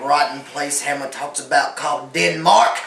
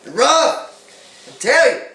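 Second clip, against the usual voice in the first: mock anguish; 11 semitones higher, 11 dB louder, much slower than usual. Castaway's hammed-up lament.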